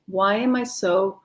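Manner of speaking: slow, soothing question; gentle affirmation; calm affirmation. Shown as a demonstration. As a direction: say it as if already calm. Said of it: "one I talk to everybody".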